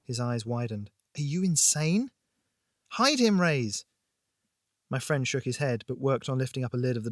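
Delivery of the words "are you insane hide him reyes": alarmed urgency. A narrator's reading. Friend ordered, alarmed argument in alley.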